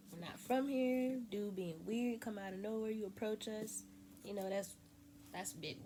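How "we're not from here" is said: firm warning. Retold or imitated.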